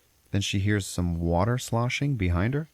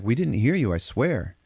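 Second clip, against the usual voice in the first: higher, lightly acted innocent denial; husband's protest; 5 semitones higher, 4 dB louder than usual. Teller voices husband swearing to wife, light protest. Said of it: "And he's like".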